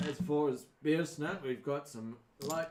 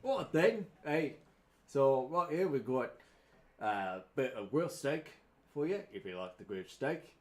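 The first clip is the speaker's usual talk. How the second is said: put-on posh accent; 3 dB louder than usual. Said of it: "the other one with the more posh accent".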